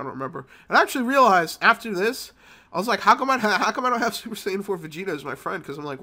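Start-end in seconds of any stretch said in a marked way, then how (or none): 3.0-5.6 laughing. Real, not acted. Laughing at game friend.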